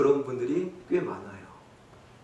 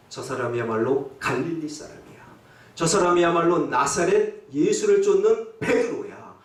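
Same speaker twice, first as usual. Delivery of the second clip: confident accusation; 2 semitones higher than usual. Acted. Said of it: "확신에 찬 어조로".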